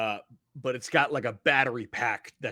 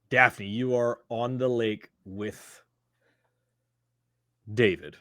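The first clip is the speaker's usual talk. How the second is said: game master narration; 4 semitones lower than usual. Acted. Game master sets the scene.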